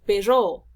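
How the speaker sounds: "perro" with a loud, stretched PE; stress on first syllable. Shown as a demonstration. Teacher showing students the spoken accent, stress on PE in "perro". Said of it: "solamente se van a pronunciar".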